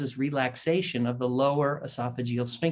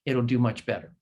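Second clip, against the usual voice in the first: polite; 2 semitones lower than usual. Retold or imitated. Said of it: "very politely says".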